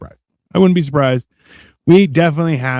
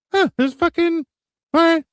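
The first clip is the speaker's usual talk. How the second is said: mock surprise; 14 semitones higher than usual. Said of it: "And you're like".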